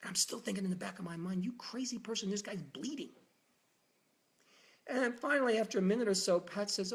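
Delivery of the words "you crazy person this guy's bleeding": whispered frustrated aside; under-breath thought. Retold or imitated. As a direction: hiss it to yourself. Inner thought while doctor delays.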